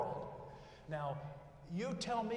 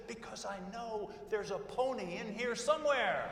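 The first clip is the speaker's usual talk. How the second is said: put-on excited kid; 5 semitones higher, 5 dB louder than usual. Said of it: "He said".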